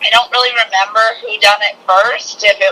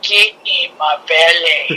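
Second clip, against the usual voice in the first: Fat Bastard; 2 semitones lower, slower than usual. Retold or imitated.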